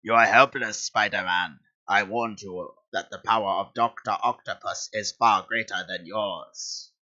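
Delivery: lightly voiced villain, slow menacing gloat; a hint of a gloating supervillain; Doctor Octopus voice. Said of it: "let me try and do a Doctor Octopus voice".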